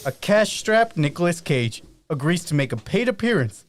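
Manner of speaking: reading while still winded; breathless after running upstairs; out of breath. Real, not acted. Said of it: "I'm out of breath from running up those stairs".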